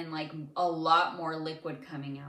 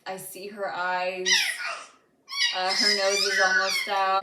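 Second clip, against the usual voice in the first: put-on louder, excited report of the baby's head; excited husband; 3 semitones higher, 10 dB louder than usual. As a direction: call out what he sees, thrilled and loud. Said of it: "I hear my husband saying".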